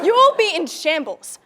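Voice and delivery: loud, slow, drawn-out doom; triumphant, stretched-out menace; gloating threat. Acted. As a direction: relish the ruin, punching it out.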